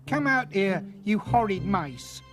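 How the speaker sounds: high, loud shrieking at the mice; screaming. A narrator's reading. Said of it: "she screamed".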